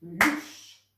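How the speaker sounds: louche stretched slowly and loud as a single beat; one clapped syllable. Shown as a demonstration. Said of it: "quand je tape, je fais". (louche, lent et fort, une seule syllabe)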